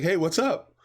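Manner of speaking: high, laid-back stoner greeting; stoner dude voice. Retold or imitated. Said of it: "He was like".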